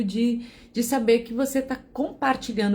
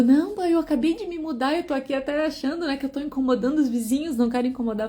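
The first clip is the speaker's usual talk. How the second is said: higher, eager little voice for the new neighbor; hint of a nervous newcomer, pitched up; mock apologetic neighbor; 4 semitones higher, faster than usual. The new neighbor apologizing on the phone, mock eager and higher.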